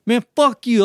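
high, loud mock outburst; retold angry yell. Driver to the storyteller in a shouting match, mock-angry yell. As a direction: imitate a driver hurling an insult.

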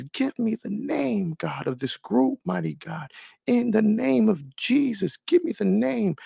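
pleading prayer. Retold or imitated. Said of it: "on the altar crying".

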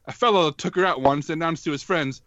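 put-on lightly old-fashioned announcer read; old-timey voice. Shown as a demonstration. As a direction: read it like a 1950s narrator. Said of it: "it demands a slightly old-timey voice".

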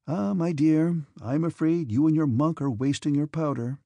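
gentle teasing brother; affectionate mock scolding; banteringly yet tenderly. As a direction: tease her, but kindly. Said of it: "banteringly yet tenderly".

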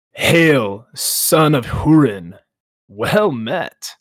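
slow, booming ancient dragon; Glaurung voice. Acted. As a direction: speak as a menacing old dragon.

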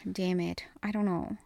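unvoiced, hushed "I don't know"; a whispered aside while she can't choose. Real, not acted. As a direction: mutter it to yourself, undecided. Torn over a candy choice.

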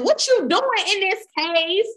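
high, booming voice of God questioning; God's voice. Retold or imitated. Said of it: "he said".

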